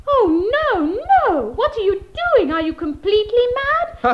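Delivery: alarmed. Acted. Girl alarmed at boy drinking.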